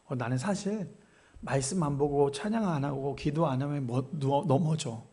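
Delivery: soft, low, hesitant admission; reluctant confession. Acted. Church deacon admits a weakness to the devil, quietly. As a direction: own up quietly and sheepishly.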